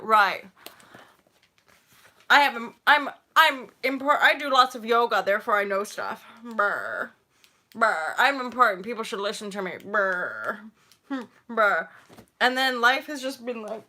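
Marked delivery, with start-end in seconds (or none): 0.0-11.9 loud, puffed-up know-it-all; mock her own younger arrogant self; pompous self-important voice. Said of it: "I was starting out on YouTube being like".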